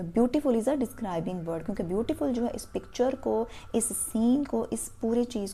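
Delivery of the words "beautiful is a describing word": very slow, each word spaced; slow teacher dictation of a rule. Shown as a demonstration. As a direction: dictate it so pupils can write.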